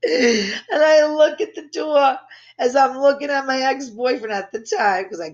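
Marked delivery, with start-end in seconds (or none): 0.0-2.2 high, squealing laughter through words; laughing hard. Real, not acted. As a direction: talk while cracking up. Cracking up at her story.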